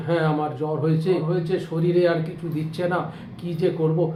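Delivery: low, soft moaning of a feverish patient; groaning sick man. Retold or imitated. Feverish neighbour groans out his complaint, low and weak. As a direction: moan the words like you're weak with fever. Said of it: "গুঙিয়ে গুঙিয়ে বলছে".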